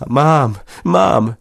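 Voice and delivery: high, loud cry of joy; a loud, delighted call; exclaiming. A narrator's reading. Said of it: "zawołała".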